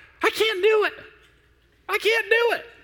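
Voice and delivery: very high-pitched, loud, whiny griping. Acting out own past complaint beside father's deep voice: mock high-pitched griping. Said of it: "I'm in that high pitch just griping".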